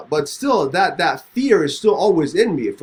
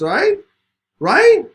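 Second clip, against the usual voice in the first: desperate plea; 11 semitones higher, 6 dB louder than usual. Retold or imitated. Pleading with armed officer.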